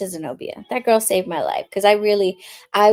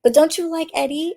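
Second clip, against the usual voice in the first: probing friend; 10 semitones higher than usual. Retold or imitated. Friend probing about a boy.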